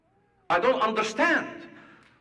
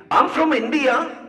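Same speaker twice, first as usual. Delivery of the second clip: keen raised-hand answer, a bit higher; eager student; 5 semitones higher, 3 dB louder than usual. Retold or imitated. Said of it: "raising his hand all excited".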